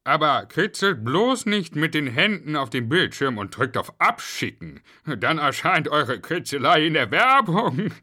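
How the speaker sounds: high, loud character voice; high-pitched greeting easing into a warning; Herr Popel. A narrator's reading. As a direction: explain to the children in a put-on high voice. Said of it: "erklärte Herr Popel".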